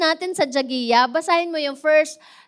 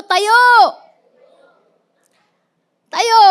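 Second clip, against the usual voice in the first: higher, louder call to rise; rally your neighbor to stand up; rousing shout; 8 semitones higher, 8 dB louder than usual. Shown as a demonstration. Congregation telling the person beside them to rise, shouting. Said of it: "Sabihin mo sa katabi mo".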